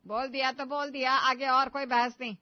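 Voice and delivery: loud, final, no-arguments scolding; stern scolding. Acted. Mother-in-law silencing her daughter-in-law, loud and final. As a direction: shut the argument down hard.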